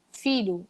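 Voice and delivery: filho com LH palatal, devagar; standard filho. Shown as a demonstration. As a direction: diga filho com LH normal. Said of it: "se for a palavra filho". (pronúncia padrão de filho)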